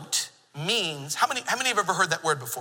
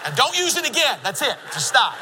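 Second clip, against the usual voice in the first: laughing; 6 semitones higher, 4 dB louder than usual. Real, not acted. Laughing at his own joke.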